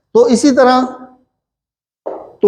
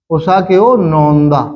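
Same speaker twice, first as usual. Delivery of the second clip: 1 slow repeat; 2 semitones lower, slower than usual. Shown as a demonstration. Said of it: "तो आप कहें".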